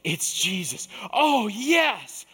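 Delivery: high, loud glad cry; light up at the news; Peter's happy shout; excited recognition. Retold or imitated. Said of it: "I picture Peter responding this way".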